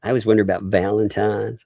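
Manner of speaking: put-on a light Southern drawl, child's plea; mild imitation of a Southern girl asking her dad; imitating daughter's Southern drawl. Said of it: "like, a heavy Southern drawl".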